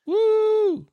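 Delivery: high, loud whoop of joy; excited cheer. Real, not acted. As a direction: cheer it out with real delight. Cheering the release date news.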